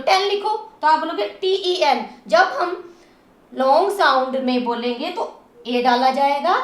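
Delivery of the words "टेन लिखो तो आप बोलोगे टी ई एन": fast, brisk teacher's demonstration; speaking with speed. Shown as a demonstration. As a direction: rattle it off quickly. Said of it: "speed से बोल रही हूँ". (तेज़ रफ़्तार से)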